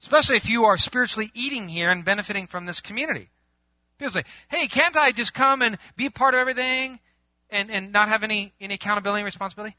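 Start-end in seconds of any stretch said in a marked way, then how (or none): 4.5-9.7 wheedling request. Acted. Acted churchgoer pleading for exemption.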